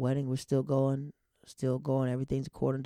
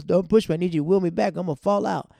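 high, loud, mock-alarmed orders; imitated old man protesting; 6 semitones higher, 8 dB louder than usual. Man in wheelchair warns his helper, imitated loud protest. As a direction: fuss loudly like the man being pushed. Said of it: "He goes".

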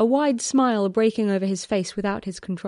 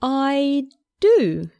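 startled, pitched-up reply; voice higher than usual; 5 semitones higher, 4 dB louder than usual. A narrator's reading. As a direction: answer high and flustered. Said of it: "his voice higher than usual".

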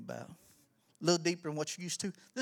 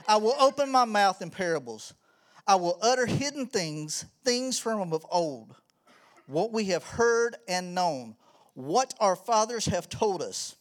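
scripture reading; 3 dB louder than usual. Acted. Reads scripture aloud.

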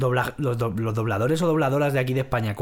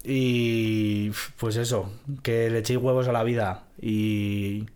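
tender goodbye; 4 semitones lower, 4 dB quieter than usual. Real, not acted. Heartfelt farewell.

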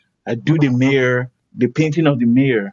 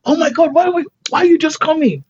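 high, loud, thrilled exclamations of welcome; excited greeting; 5 dB louder, faster than usual. Retold or imitated. Crowd hails the arriving painter in high loud excitement. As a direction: shriek it as if she's the star arriving. People greeting her at the event.

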